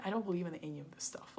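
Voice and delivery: dismissive whisper. Retold or imitated. Skeptical guy at the bar.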